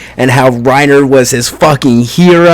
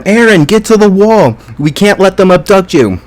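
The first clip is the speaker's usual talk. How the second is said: high, urgent mock shout; imitated scream; 7 semitones higher than usual. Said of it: "Armin screams at him".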